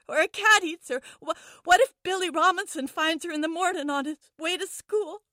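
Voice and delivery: put-on high, frantic young girl; scared kid rambling to herself; little girl voice. Kidnapped girl talks in trunk.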